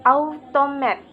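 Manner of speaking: "automat" with main stress on the first syllable, lighter stress on the last; teacher's example of "automat", stressed on its first syllable. Shown as a demonstration. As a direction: demonstrate "automat": strong start, weak middle, secondary beat at the end. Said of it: "there is usually primary stress on the first syllable".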